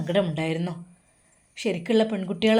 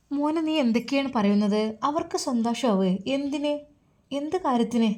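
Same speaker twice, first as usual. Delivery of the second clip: alarmed mother; 5 semitones higher, 4 dB quieter than usual. Acted. Alarmed mother questions son.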